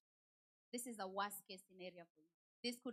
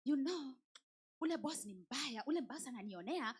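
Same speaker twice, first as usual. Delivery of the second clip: louder, whiny gossip about the boss, in Swahili; complaining coworker; 3 dB louder than usual. Retold or imitated. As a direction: whine about the bad boss like a hurt friend. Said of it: "you know how they always come".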